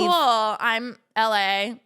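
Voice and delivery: very slow, deadpan reply; so dry. Shown as a demonstration. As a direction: drag it out, utterly unimpressed. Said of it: "Like, so dry".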